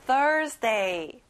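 "Thursday" with the first syllable THUR stressed. Shown as a demonstration. Teacher showing children how to pronounce it, THUR stressed in "Thursday". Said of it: "앞에 thir 강조해보세요".

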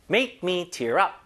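slow read with weight on "up"; stress at the end. Shown as a demonstration. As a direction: put the beat on "up", the phrasal verb. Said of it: "강세 뒤에 줘야 되죠?". (구동사라서 뒤쪽 "up"에 강세)

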